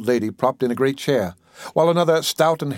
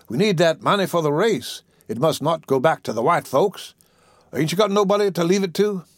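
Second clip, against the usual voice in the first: mildly urgent persuading voice; eager visitor; 5 semitones higher than usual. Acted. Greedy visitor urging the patient about her pension, eager. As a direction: press the point, rising high on the question.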